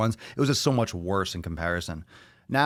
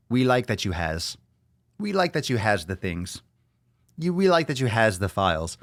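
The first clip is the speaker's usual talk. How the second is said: put-on broken-English accent. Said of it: "With that accent".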